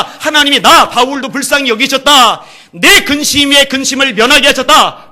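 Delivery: loud, high preaching of scripture; fervent preaching. Acted. Preacher telling the church of Paul's relief, fervently. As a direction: lift the hall with it.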